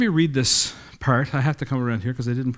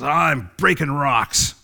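slow, weary mumble of a bored laborer; tired rock breaker, slow and listless; bored worker; slower than usual. Acted. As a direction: drag it out like the job means nothing. First worker voiced in parable.

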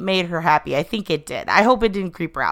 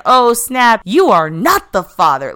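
talk show reveal; 3 semitones higher, 6 dB louder than usual. Retold or imitated. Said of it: "It was like an".

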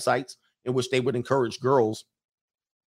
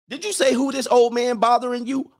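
much higher, indignant rejected guy; offended guy; 10 semitones higher, 4 dB louder than usual. Acted. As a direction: play the wounded dude calling her out. Rejected guy confronts woman.

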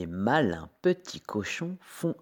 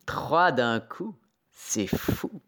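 slow, relishing wolf, building louder; gleeful wolf; 5 semitones higher, 5 dB louder, slower than usual. A narrator's reading. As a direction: savour the coming meal, growing bolder. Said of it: "il s'exclame tout joyeux". (loup tout joyeux, gourmand)

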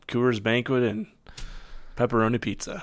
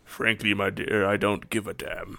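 lightly voiced movie idol; mild old Hollywood impersonation; Clark Gable; 3 semitones lower, 5 dB quieter than usual. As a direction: deliver it as a film star's famous line. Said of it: "this is my Clark Gable".

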